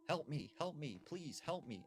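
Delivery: a hint of a woman calling for help; imitated woman's voice. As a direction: lift the pitch to mimic a woman. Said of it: "the sound of a woman's voice".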